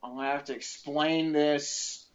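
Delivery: slow, hushed doom; mock dread. Driver dreading the police stop, slow hushed panic. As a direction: drag it out like you're already caught. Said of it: "I'm like".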